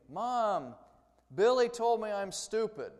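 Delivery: put-on high, loud tattling child; child screaming. A five-year-old screaming to mom about her brother. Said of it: "comes running into the kitchen screaming".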